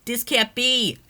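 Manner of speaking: high, loud despairing cry; anguished cry. Acted. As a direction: cry out in disbelief. Daughter hears of father's death.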